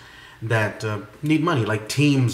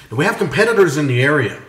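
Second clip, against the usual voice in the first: louder and faster; 3 semitones higher, 5 dB louder, faster than usual. Shown as a demonstration. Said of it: "You might wanna turn up the volume on this".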